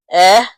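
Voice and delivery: "eh" as a lone open vowel; short E sound. Shown as a demonstration. Teacher spelling Belinda, short E sound. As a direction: sound out "eh" separately, not ee. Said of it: "the E sound".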